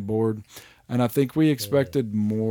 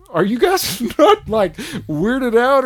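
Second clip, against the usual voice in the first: high, loud, slow baffled question; incredulous disbelief; 12 semitones higher, 8 dB louder, slower than usual. Retold or imitated. Player asking the characters, high baffled disbelief. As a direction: stretch it out in disbelief. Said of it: "and you're like".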